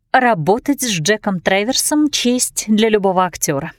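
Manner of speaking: flat, mechanical robot voice. Acted. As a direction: recite it like a programmed robot. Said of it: "произнесла она голосом робота".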